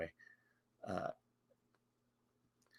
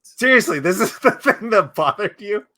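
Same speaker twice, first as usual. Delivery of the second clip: louder and higher, laughing in disbelief; real laughing shout of disbelief; 3 semitones higher, 5 dB louder than usual. Real, not acted. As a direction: crack up at how petty the complaint is. Incredulous laughing at cohost's complaint.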